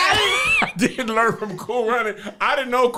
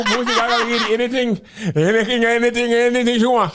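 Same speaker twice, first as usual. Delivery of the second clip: put-on loud Jamaican accent. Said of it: "It's getting louder and louder and more angry".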